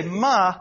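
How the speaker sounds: MA loud with falling pitch; fourth tone. Shown as a demonstration. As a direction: punch ma downward. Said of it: "the fourth tone".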